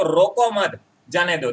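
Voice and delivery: slow "रोको मत", break, "जाने दो"; group "रोको मत" together, then release "जाने दो"; "रोको मत" and "जाने दो" as two phrases; pause after मत. Shown as a demonstration. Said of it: "यहाँ पर जाने की बात कर रहे हैं".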